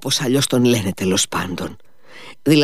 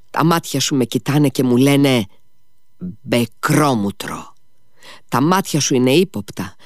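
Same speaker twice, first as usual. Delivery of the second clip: put-on forced drunken anger; 3 semitones higher than usual. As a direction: pick a quarrel out of drink-fueled spite. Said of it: "ζορίζονται ξαφνικά να θυμώσουν".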